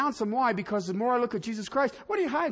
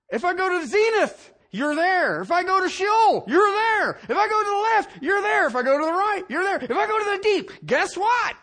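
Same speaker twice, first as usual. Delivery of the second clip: louder, higher rhythmic build; fervent recitation; 7 semitones higher, 4 dB louder than usual. Real, not acted. Preacher reciting the psalm with rising fervor. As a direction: drive each line harder.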